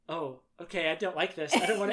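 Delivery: uneasy retold protest, played for laughs; mock nervous dread. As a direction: act out growing nerves, amused. Retelling teens' mounting dread.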